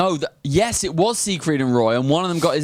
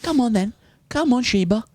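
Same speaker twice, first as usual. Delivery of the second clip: coaxing an animal; 10 semitones higher than usual. Pretend. Coaxing imaginary lion into cinema.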